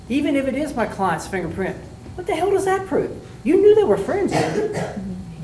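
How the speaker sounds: mock aggressive defense attorney; cross-examiner. Shown as a demonstration. Demo of an aggressive cross-exam.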